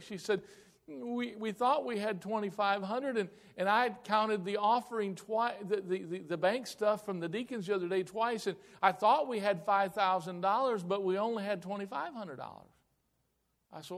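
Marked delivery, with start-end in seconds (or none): 0.9-12.7 high, halting imitation of upset confession; tearful secretary. Secretary explains bookkeeping error to pastor, imitated tearful fluster. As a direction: mimic a flustered woman explaining herself, pitched up. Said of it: "and she's crying again".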